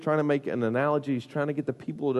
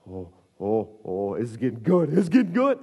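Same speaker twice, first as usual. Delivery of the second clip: mounting glee; 3 semitones lower than usual. Retold or imitated. Onlooker watching the tantrum grow, glee building. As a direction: build from hushed oohs to a thrilled cry.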